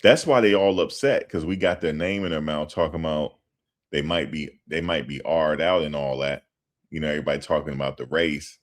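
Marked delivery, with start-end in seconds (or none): none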